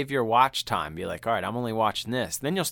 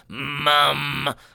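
put-on creepy spooky voice, higher and louder; 4 semitones higher, 5 dB louder than usual. Retelling how the son calls from the stairs: imitating son's creepy horror-movie voice. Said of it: "he's got this thing where he does his voice".

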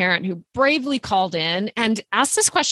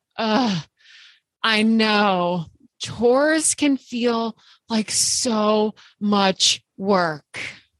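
worn-out, drained, exhausted, weary sigh. Showing how a parent can mirror a daughter who flops down at chore time, in an exhausted voice. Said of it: "say in an exhausted voice".

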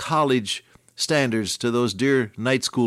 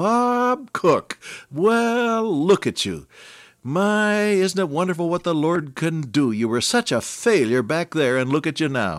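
pitched-up, exclaiming, mildly yelled, loud; 6 semitones higher than usual. Retelling a woman addressing the speaker after a church service; imitating someone shouting. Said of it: "she said at the top of her voice".

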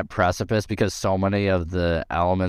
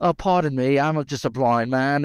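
put-on British accent, pitched up; 7 semitones higher than usual. Quoting an actor's line from a movie scene: imitating a put-on British accent. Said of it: "vision of what his British accent was".

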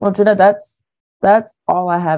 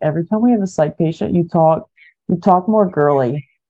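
normal talking voice

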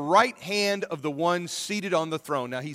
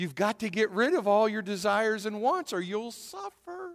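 small little creature voice; 4 semitones higher than usual. Quoting what Yoda tells Darth Vader, in a little Yoda voice. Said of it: "in his little Yoda voice".

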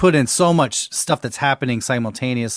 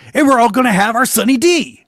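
very high, loud Japanese anime-style voice; 11 semitones higher, 7 dB louder than usual. Describing a cartoon character talking like Japanese anime, doing an anime character voice. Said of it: "It's kind of like they talk like this".

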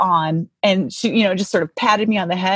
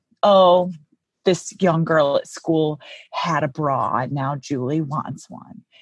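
acted condescending, patronizing little sidelong aside; 3 semitones lower than usual. Retelling how mom spoke to another woman in a little aside: mock-patronizing aside. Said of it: "my mom very patronizingly kind of".

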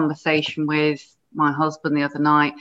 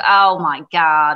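put-on American accent, loud; 5 dB louder than usual. Retelling watching an episode with a man, the speaker quotes him in his american accent. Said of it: "in his American accent".

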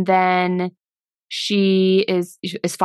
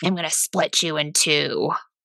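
mock eerie, really creepy, low tone; 4 semitones lower, 4 dB quieter than usual. Recounting a scene where he comes after her, mimicking a really creepy tone. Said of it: "in a really really creepy tone says".

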